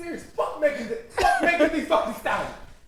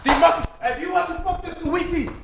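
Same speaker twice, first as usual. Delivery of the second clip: mock Michael Blackson accent; 4 semitones higher than usual. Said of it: "That's exactly the fucking accent that was going for".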